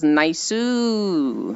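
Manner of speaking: long drawn-out falling catchphrase; stretched, swooping "Naisu"; Space Fish. Retold or imitated. Quoting a friend's catchphrase to chat, lightly imitating with a drawn-out fall. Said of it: "in Space Fish's voice".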